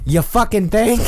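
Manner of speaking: high, sharp sarcastic retort; sarcastic snap. Retold or imitated. To customer about mashed potatoes, high scornful snap. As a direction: bite back with scorn. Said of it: "And I was like".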